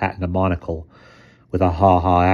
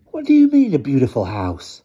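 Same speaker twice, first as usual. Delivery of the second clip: sneering question that leaps higher on the opening; scornful; 7 semitones higher, 5 dB louder than usual. Acted. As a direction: scoff at the word beautiful as if it were absurd. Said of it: "Blackie asked with scorn".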